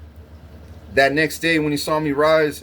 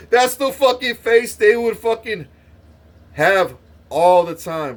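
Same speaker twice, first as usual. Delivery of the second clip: laughing through the words, louder; 7 semitones higher, 4 dB louder than usual. Real, not acted. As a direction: crack up while you say it. Laughing while telling.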